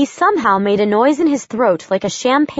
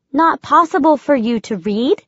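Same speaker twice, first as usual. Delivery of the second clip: lightly raised, brisk woman's voice; young woman voice; 5 semitones higher than usual. Acted. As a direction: voice Josie a little higher. Josie's dialogue voiced higher.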